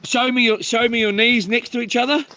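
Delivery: imitating the doctor. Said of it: "he's like".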